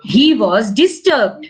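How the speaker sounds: slow, measured model reading; careful word-by-word dictation; read-after-me model. Shown as a demonstration. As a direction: read it slowly for a child to copy. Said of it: "Read after me".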